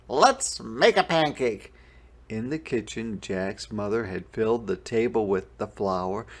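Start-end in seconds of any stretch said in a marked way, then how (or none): 0.1-1.7 put-on eager boy. A narrator's reading. Jack voiced in story.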